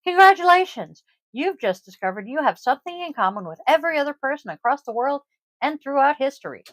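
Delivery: hammed-up TV announcer; infomercial announcer. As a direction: sell it like an infomercial. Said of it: "It sounds like a fucking infomercial".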